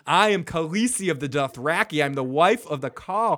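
imitating an indignant queen, firm emphasis; retold proud threat. Khaleesi warns her brother, retold proud threat. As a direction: declare it with mock regal anger.

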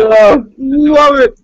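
high, drawn-out fan squeal; gushing delight. Real, not acted. Fan gushing over a favorite show, high drawn-out delight. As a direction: draw it out high with relish.

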